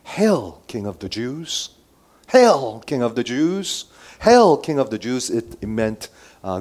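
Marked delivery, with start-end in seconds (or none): 0.0-5.3 mock hail, punched on the first word. Soldiers mocking Jesus to his face, mocking. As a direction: hail him in mockery, repeatedly. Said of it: "mocking him".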